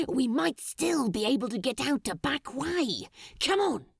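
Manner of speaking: lightly voiced, urgent demon; urgent Crowley. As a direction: push toward the back way. Crowley planning escape.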